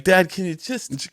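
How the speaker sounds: put-on high, soft, slow child's plea; embarrassed protest. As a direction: play a mortified kid begging dad. Acts embarrassed child with dad.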